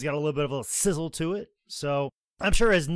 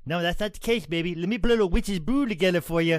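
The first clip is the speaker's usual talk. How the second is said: Ric Flair impression; 3 semitones higher, 3 dB louder than usual. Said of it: "he's like".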